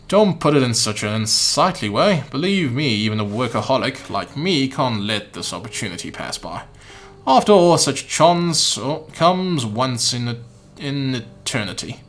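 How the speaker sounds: put-on light British accent, half-hearted; a slightly put-on British gentleman. Umbrella Man chatting to the boy in a mild British accent. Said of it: "let's give him a British voice".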